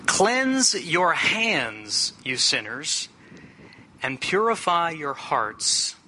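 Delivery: slow, deliberate scripture reading with long pauses. Real, not acted. Preacher reads James on reverent prayer to the congregation, slow scripture reading. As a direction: proclaim each command of the verse slowly.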